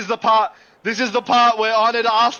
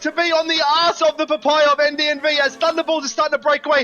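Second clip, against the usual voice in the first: hoarse sleep deprived hype; 4 semitones higher than usual. Real, not acted. Hyped commentary on gift subs.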